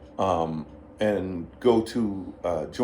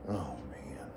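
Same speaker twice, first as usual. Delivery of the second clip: very low, hushed mock dismay; imitating a bandmate giving up; resigned grumble; 9 semitones lower, 16 dB quieter than usual. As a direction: sink into a low, defeated aside. Slim's acted resigned reaction.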